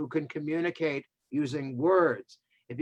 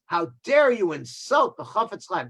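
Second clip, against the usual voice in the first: upset; 4 semitones higher, 4 dB louder than usual. Retold or imitated. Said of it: "the other Jew gets so upset".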